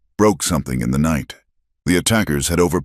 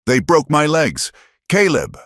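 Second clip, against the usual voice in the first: much higher, anguished shriek; 12 semitones higher than usual. Acted. Tortured boy shrieking to Caleb, anguished high cry. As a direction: scream out the pain. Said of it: "Thomas shrieked again".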